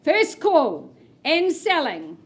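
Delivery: excited announcement. Real, not acted. Announces the house is selling.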